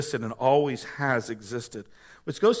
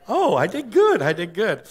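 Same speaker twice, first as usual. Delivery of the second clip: mock proud puppy; 5 semitones higher, 4 dB louder than usual. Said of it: "and I'm like".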